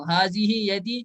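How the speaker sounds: حاضی یدی read slowly with a rising end; slow model reading. Shown as a demonstration. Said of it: "کیونکہ یدن آپ کا جفت عضو ہے".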